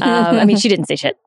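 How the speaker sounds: ordinary talk, nothing marked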